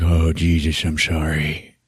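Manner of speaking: low, hushed acted condolence; soft sympathy. Stone hearing Kim's terrible news, soft low sympathy. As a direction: sink into quiet sympathy. Stone consoles grieving Kim.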